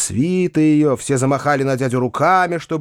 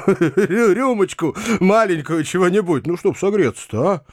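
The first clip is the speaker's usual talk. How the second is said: higher-pitched, halting coaxing with a little laugh; coaxing offer; 7 semitones higher than usual. A narrator's reading. Uncle offers ailing Foma a warming drink, coaxing. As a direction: offer a small drink, fumbling.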